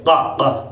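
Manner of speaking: क said as a heavy q from the throat; deep q sound. Shown as a demonstration. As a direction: push क back to the throat. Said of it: "यहाँ से निकलता है क".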